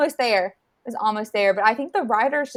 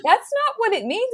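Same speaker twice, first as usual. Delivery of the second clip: imitating Kit; 12 semitones higher than usual. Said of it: "Kit was like".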